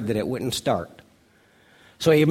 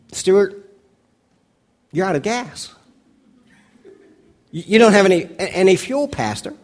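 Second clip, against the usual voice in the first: calm; 5 semitones higher than usual. Retold or imitated. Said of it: "he says calmly".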